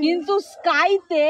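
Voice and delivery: স্কাইতে stretched slowly and stressed. Shown as a demonstration. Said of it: "এসকে". (স্কাইতে শব্দে জোর দিয়ে ধীরে)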